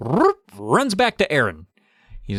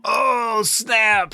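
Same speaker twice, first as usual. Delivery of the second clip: surprised; 10 semitones higher than usual. Real, not acted. Reaction to twist.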